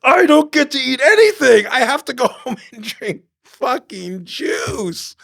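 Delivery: high, loud mock tantrum with a laugh breaking through; slow, hammed-up whine about the juice; retold angry rant. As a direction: rant like a starving man denied dinner. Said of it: "And I get so angry".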